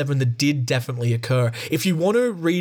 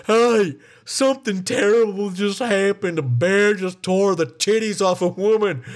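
alarmed man; 6 semitones higher than usual. Acted. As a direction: burst in demanding they kill the bear. The man reports the attack.

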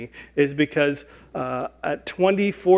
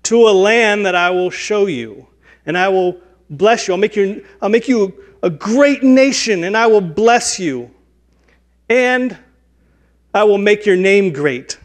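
the Lord; 5 semitones higher, 6 dB louder than usual. Acted. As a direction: declaim it grandly, phrase by phrase. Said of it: "that's how the Lord speaks in Genesis".

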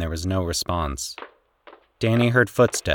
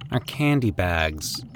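lamenting; slower than usual. Acted. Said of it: "Danny lamented".

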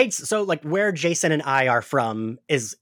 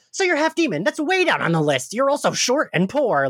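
imitated dismissive put-down; 8 semitones higher than usual. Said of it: "And she's like".

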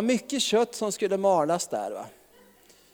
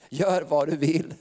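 mock desperate prayer; slower than usual. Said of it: "liksom, kompromisslöst".

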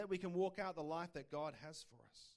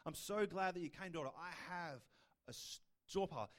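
gentle fatherly God. Acted. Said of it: "the Father's like".

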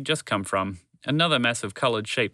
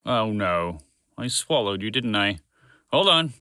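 lower, dismayed dragon voice; 5 semitones lower than usual. Acted. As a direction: realize the mistake, uh-oh. Dragon realizes he swallowed friends.

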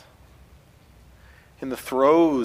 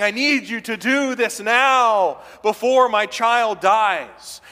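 desperate plea; 7 semitones higher, 5 dB louder, slower than usual. Acted. Official crying out to Jesus.

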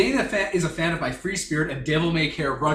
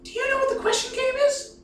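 much higher, eager character voice; squeaky pestering voice; high put-on voice.

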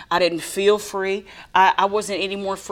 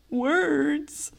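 whiny question; 7 semitones higher, 3 dB quieter than usual. Retold or imitated. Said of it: "In the same whiny voice".

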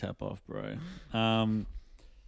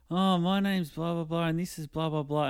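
mocking chatter; 5 semitones higher than usual. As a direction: parody the girls' chatter. Mocking girls' small talk.

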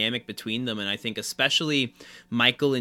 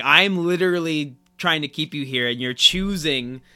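flustered; 3 semitones higher, 4 dB louder than usual. Retold or imitated. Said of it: "how flustered and absolutely just, like, shocked".

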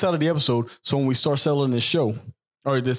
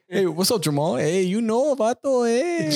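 put-on stereotyped Mexican accent, rising higher toward the end; mock stereotypical Mexican accent; 6 semitones higher, slower than usual. Friend mocks the co-worker's accent in a Mexican accent. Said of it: "the accent you used was very stereotypical".

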